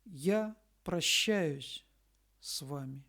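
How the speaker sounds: normal talking voice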